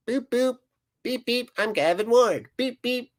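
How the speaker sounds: squeaky-high mocking referee; Gavin Ward. Fan imitating referee blowing his whistles, high mocking voice. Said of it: "that's the voice I hear when I look at his face".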